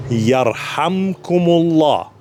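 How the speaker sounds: Yarhamkumullah said slowly and clearly; measured, deliberate Yarhamkumullah; slow teaching recitation. Shown as a demonstration. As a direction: lay out Yarhamkumullah for learners. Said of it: "I'll say it one more time".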